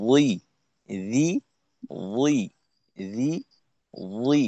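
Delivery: ওই thick and rounded, রি thin; thick against thin. Shown as a demonstration. Teacher contrasting the thick letter, heavy against thin. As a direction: make ওই heavy, keep রি light. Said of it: "রয়ের সময় মোটা করে".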